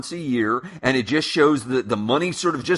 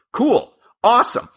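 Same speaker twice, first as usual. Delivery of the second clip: excited; 11 semitones higher, 4 dB louder than usual. Acted. Mock cheer at the example.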